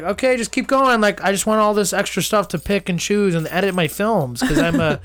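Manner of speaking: a hint of an eager New York director; Martin Scorsese. Imagining the director ordering endless takes, lightly mock New Yorker. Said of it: "every Martin Scorsese film".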